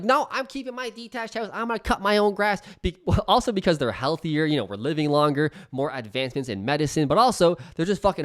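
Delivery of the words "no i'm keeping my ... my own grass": mock boomer. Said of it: "They're like".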